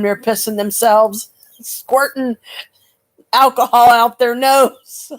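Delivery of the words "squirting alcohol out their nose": building excitement. Acted. Describing audience losing it.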